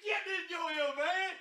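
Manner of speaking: loud yell across the room; shout. Real, not acted. Yelling at a friend to get in. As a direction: call it out loud.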